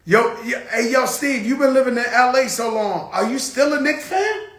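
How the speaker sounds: teasing call-out to a friend. Real, not acted. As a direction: shout across to Steve teasingly. Calling out to Steve.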